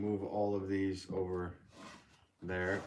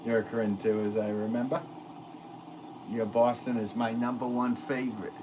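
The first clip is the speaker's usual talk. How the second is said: put-on playful Boston accent; 3 semitones higher than usual. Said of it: "My Boston accent?".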